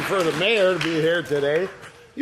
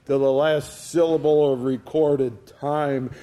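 Shakespeare recital; 3 semitones lower than usual. Acted. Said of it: "put into the mouth of one of his players".

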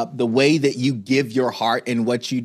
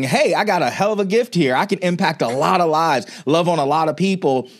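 sudden realization; 4 semitones higher than usual. Retold or imitated. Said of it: "all of a sudden you're realizing".

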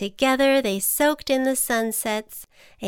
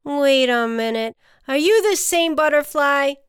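loud, puzzled double take; emphatic storybook disbelief; amazed ant; 5 semitones higher, 6 dB louder than usual. A narrator's reading. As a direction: question your friend in astonishment. Ant amazed at changed butterfly.

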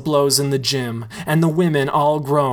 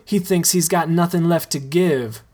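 with a smile; 4 semitones higher than usual. Acted. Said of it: "says Rome with a smile".

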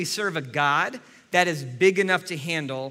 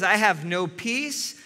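slow lament; slower than usual. Acted. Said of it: "he says".

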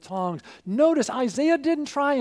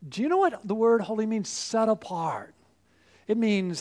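ordinary delivery

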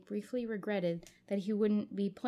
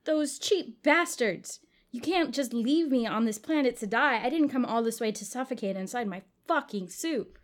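angry shout; 3 semitones higher, 6 dB louder than usual. Acted. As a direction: rage at the people who left him. Jake rages, left to die.

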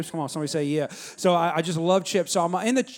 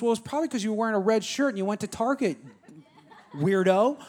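laughing wife. Retold or imitated. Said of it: "She goes".

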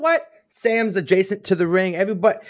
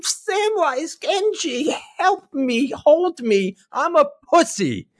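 high, very slow whimpering mock plea; whiny mock Frodo; 9 semitones higher, much slower than usual. Mocking Frodo begging Samwise, high whiny whimper. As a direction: ham up a crybaby begging to be held. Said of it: "he's crying and he's just like".

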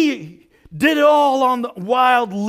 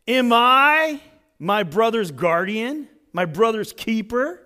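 defiant retort; 2 semitones higher than usual. Acted. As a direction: toss the question back, daring him. Cain defiantly answers God.

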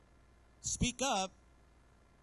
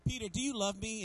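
pressing the question. Retold or imitated. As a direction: raise the pitch and press on "you". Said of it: "he asks him again".

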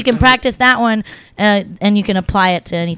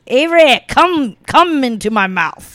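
slow, imitated tipsy South African accent; drunk South African friend; 2 semitones higher than usual. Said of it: "he was really drunk".

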